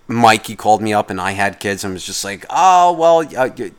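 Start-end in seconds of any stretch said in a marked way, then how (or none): 2.5-3.7 higher, louder friend starting a story; chatty friend voice. Retold or imitated.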